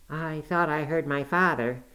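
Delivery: a touch of a breathless, startled gasp; mild frightened gasp, just woken; gasped in fright. Acted. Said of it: "he gasped".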